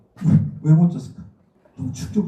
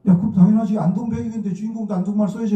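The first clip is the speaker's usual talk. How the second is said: higher, louder voiced quote of a senior; emphatic 'of course', as a senior would say; imagined senior's approval; 6 semitones higher, 3 dB louder than usual. Imagined encouraging words from seniors. (선배가 당연하다는 듯)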